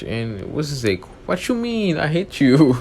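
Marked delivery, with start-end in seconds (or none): 1.3-2.8 much higher, louder angry yell; angry outburst. Retold or imitated. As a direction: fling the words out in a rage.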